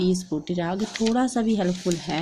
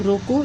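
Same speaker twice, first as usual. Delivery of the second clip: "रोको" set apart before a pause; comma after रोको; 3 dB louder, slower than usual. Shown as a demonstration. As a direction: stop right after रोको. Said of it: "यहाँ पे comma लगाना है".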